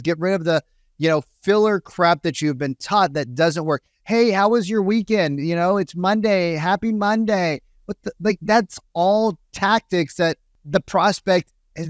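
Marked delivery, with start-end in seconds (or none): 4.0-7.6 lightly voiced sales caller, lilting up; mock small talk. Coach mocking salespeople's weekend small talk, lightly put-on friendliness. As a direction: gently parody a canned friendly opener.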